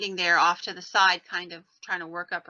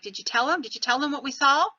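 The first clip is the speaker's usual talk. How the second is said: raised, eager imitation of an excited husband; mildly excited quote; 6 semitones higher, 4 dB louder, faster than usual. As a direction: ask it urgently, pitched higher. Retold husband bursting in.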